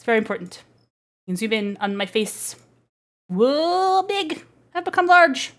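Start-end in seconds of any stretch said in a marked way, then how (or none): 3.3-5.5 high surprised exclamation, a little playful; surprised whoa. Real, not acted. VTuber seeing her zoomed-in face, high surprised whoa. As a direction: gasp at how big the face got.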